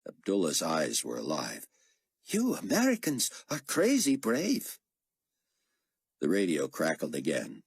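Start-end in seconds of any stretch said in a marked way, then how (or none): 2.2-4.8 a polite, earnest foreign pilot; Jordanian pilot voice. A narrator's reading. Abdullah voiced.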